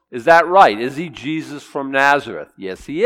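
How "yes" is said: ordinary talk, nothing marked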